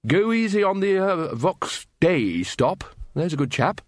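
high start, slowing at the hesitation; hearty, kindly request; instructing Ridcully. A narrator's reading. Wizard asks the Librarian to spare the stop, hearty.

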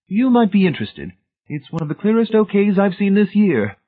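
high, loud, jovial official; beaming director voice. A narrator's reading. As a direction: beam at the new hire. Director addresses Hamilton.

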